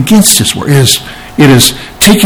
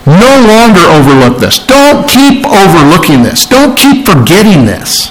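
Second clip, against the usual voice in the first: emphatic imperative, leaning on each prohibition; insistent command; 3 semitones higher than usual. Shown as a demonstration. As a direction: give it as a firm order. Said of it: "it's like a command".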